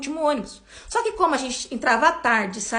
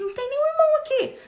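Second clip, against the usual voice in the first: much higher voice of a surprised neighbour; retold neighbour, lightly voiced and higher; puzzled neighbour; 12 semitones higher than usual. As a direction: voice the woman at the door, puzzled. Neighbour answering at door.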